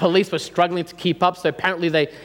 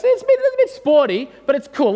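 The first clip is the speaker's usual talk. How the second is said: nervous downplaying; 8 semitones higher, faster than usual. Nervously downplaying the car to dad.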